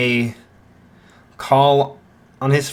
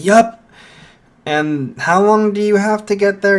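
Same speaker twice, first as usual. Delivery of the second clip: Bakugo's voice; 8 semitones higher, 5 dB louder than usual. Acted. Bakugo voiced, louder and higher.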